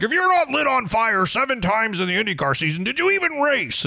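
high, scornful mock old-timer; hammed-up old-man outrage; angry old man. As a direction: caricature an indignant old fan, pitch climbing to the end. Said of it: "They are so mad".

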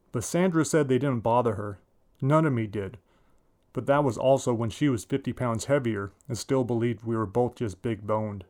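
ordinary delivery

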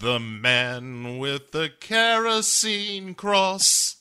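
a very slow, dramatic movie-trailer announcer; mock trailer voice. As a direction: stretch the title out like a trailer.

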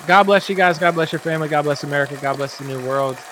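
Biden voice blessing the new world; lightly voiced Biden; high mock Biden blessing. Shown as a demonstration. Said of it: "Wait, wait, wait".

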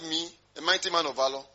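mildly incredulous question, rising at the end; doubting echo. Acted. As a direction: question the title as if it can't be you. Gideon doubts the angel's greeting.

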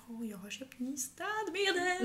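high, slow, breathy giggling whisper; mock delighted. Mocking herself for loving new cleaning products, giggly whisper. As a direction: gush over cleaning products through a laugh.

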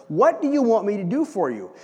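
open, inviting offer; warm, embracing. Retold or imitated. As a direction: welcome them in, sincere. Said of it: "Jesus is much more warm and embracing".

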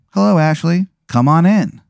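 high, singsong bus-sign greeting. Acted. The bus marquee greeting Ashley in a high singsong. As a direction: chirp it like a cheery sign. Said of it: "And it says".

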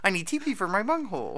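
raspy Voldemort in a Harvey Fierstein rasp; a light Harvey Fierstein impression. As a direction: Beavis line done as Harvey Fierstein. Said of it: "Harvey Fi".

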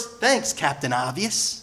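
sarcastic put-down. Acted. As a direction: thank them with dry sarcasm. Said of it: "he is so sarcastic".

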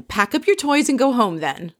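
amused, half-laughing dismissal; laughing while quoting. Retold or imitated. Retelling Mario telling Jill to go home, laughing. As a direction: quote it through a laugh.

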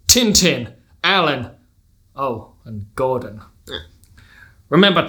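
measured American patriarch, weighty pauses; American accent. Acted. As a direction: play a commanding American father in an American accent. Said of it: "gonna have to do an accent".

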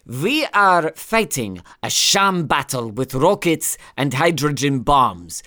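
weighty, slow mock German accent. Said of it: "your German accent became a bit Scottish there".

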